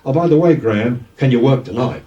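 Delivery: manager's breezy Cockney request; Cockney accent. Retold or imitated. Manager asking the new DJ to work tonight, Cockney accent. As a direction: put on a Cockney accent for the question. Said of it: "In a real Cockney accent".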